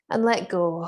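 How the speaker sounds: dramatic sigh. Shown as a demonstration. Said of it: "let's just take a big sigh together".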